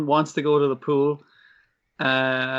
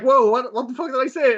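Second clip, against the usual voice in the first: startled; 10 semitones higher, 3 dB louder than usual. Retold or imitated. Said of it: "and he's like".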